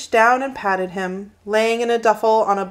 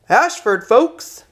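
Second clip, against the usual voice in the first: louder driver's call, rising on folks; 4 semitones higher, 4 dB louder, slower than usual. A narrator's reading. Bus driver to passengers, calling out the stop loudly. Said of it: "the driver called out".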